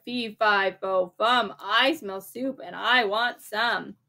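a mild giant chant, drawn out at the end. Acted. The giant sniffs out the soup, in a lightly played giant voice. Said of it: "The giant said something like".

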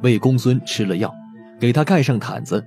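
normal talking voice

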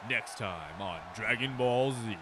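slow, low TV announcer. Pretend. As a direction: narrate like a cartoon trailer. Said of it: "Have to go a lower octave".

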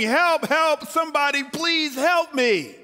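high, loud desperate cry for help; yelling for help. Acted. Man dangling from a cliff cries for help, desperate. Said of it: "and he's yelling".

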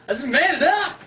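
mocking voice. Repeats louder, higher, mocking.

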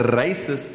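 "racist" opening on a trilled r; rolled South African r. Shown as a demonstration. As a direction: roll the first r of "racist". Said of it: "I'll pronounce it a".

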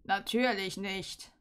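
slow, mocking sneer; a sneering "Natürlich nicht"; scornful sneer. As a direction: drag it out with contempt. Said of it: "höhnte er".

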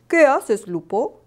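lightly voiced owl professor; a hint of a questioning owl teacher. Owl professor asks Lupo.

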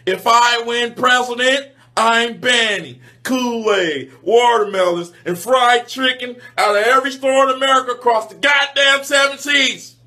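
a hint of a candidate at the podium; lightly voiced politician making pledges; mock campaign speech.

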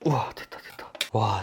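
soft, whispered wow of relief; awed, barely voiced murmur; hushed amazement. Real, not acted. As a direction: whisper it as the job comes off. Shell finally splits as he cuts.

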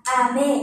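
"ame" starting low, stepping up on me; candy "ame" with rising accent; low-to-high pitch accent. Shown as a demonstration. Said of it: "mình sẽ ngược lại".

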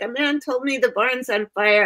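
put-on mildly frantic child reporting an emergency; retold tearful child. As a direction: re-enact a panicky small child. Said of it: "I was just in tears".

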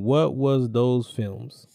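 slow robot voice, each word spaced out; monotone robot voice. Pretend. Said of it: "what are you doing with the robot voice".

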